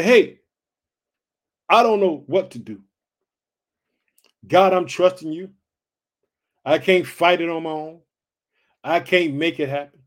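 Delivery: loud pleading prayer to God; a loud desperate prayer, crying out; earnest prayer. Shown as a demonstration. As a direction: call out to God, pleading, full voice. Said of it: "Prayer just like if you talk to your mother".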